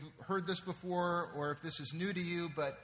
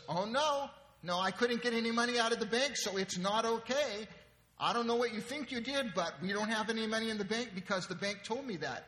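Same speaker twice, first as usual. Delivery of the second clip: high, loud indignant protest; upset wife; 7 semitones higher, 4 dB louder than usual. Acted. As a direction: argue back as an exasperated wife. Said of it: "Because she's upset about it".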